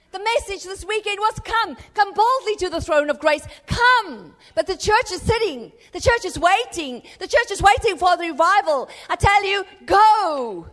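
loud, rousing pulpit exhortation; fiery preaching. Acted. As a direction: drive the congregation to go forward. Preacher exhorting the church at full force.

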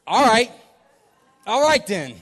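retold anger, sudden loud burst; mad. Driver retells reacting to being yelled at, mad. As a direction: let irritation punch out, mock-heated. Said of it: "I was so mad. I got angry".

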